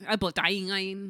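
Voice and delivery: A poutine drawn out slowly like a sound effect. Shown as a demonstration. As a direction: stretch A poutine out slowly as a noise. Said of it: "Sounds like a sound effect".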